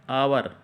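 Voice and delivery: आवर begun on the vowel AA, no H; silent H. Shown as a demonstration. Teacher shows how "hour" is spoken, आवर starting on a vowel. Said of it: "इसको बोलेंगे हम".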